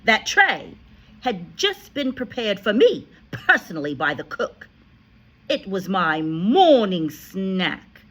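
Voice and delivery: shouting. A narrator's reading. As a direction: rage at him about the cake. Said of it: "the Trunchbull shouted".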